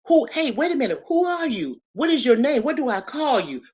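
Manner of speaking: high, startled questions; a touch of startled disbelief; startled Moses. Retold or imitated. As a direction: Moses caught off guard by the bush. Moses voiced at the burning bush.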